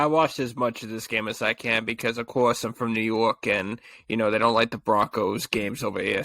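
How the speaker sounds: put-on lightly laid-on New York accent. Explaining he's from New York, on-point New York accent. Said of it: "that was too on point".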